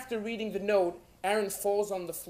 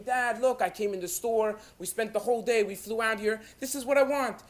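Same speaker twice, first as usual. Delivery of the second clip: put-on child pestering his dad, higher and louder; mild acted tantrum; bothering, whiny fit; 4 semitones higher, 5 dB louder than usual. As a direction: plead insistently like a kid mid-fit. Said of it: "he threw a nice Yiddish kinder type of fit".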